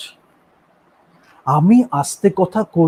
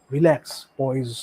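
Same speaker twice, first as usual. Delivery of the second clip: relaxed, poised; 4 semitones lower, 3 dB quieter than usual. Shown as a demonstration. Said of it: "তখন আমি জানি কিভাবে একদম".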